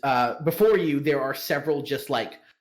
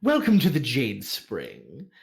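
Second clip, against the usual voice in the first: madam's welcome. Acted. Madam welcoming guests to the Jade Spring, lightly gracious. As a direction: play the host making her welcome. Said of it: "and maybe is now like".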